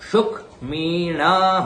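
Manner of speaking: सुखमीणः with an aspirated ख; clear ख. Shown as a demonstration. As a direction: breathe out on the ख of सुखमीणः. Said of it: "ख का उच्चारण करना है". (सुखमीणः में ख का स्पष्ट उच्चारण)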